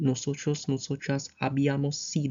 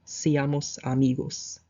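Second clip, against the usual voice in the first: slow repeat; slower than usual. Shown as a demonstration. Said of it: "Let's be friends".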